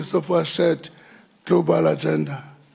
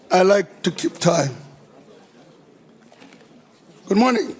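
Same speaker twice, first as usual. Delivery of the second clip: projected, raised rally voice; rally speech. Real, not acted. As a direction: project to the whole hall. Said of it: "You want me to use my rally voice?".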